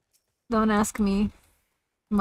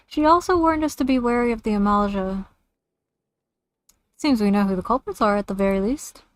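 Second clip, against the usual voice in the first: Usenbard greeting, pitched up high and bright; raised-pitch NPC voice, strongest on the hello; high-pitched camp leader voice; 4 dB louder than usual. Acted. Streamer voicing the camp leader to the player, in a high-pitched voice. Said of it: "my high-pitched voice".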